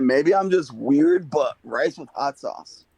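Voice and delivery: "Maybe I'm just weird, but rice with hot sauce" repeated slowly and clearly. Real, not acted. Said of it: "What'd you say?".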